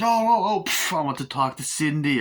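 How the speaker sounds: high, loud mock panic; frightened crowd begging; hammed-up frightened squeal; scared squeals. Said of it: "everyone's like".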